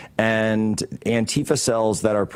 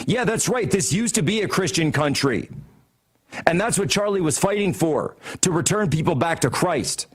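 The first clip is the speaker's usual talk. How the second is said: mocking Hillary; 5 semitones higher than usual. Mocking Hillary's imagined view.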